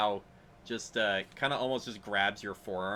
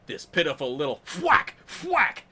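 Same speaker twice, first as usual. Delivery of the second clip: mocking monk; 5 semitones higher, 7 dB louder than usual. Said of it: "guy looks up and he goes".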